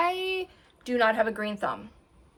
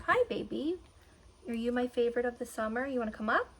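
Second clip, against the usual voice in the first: talking to the dog; 3 dB quieter, faster than usual. Real, not acted. Cooing at her dog.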